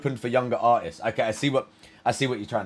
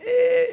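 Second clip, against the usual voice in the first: doubtful "eh". Acted. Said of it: "I'm like".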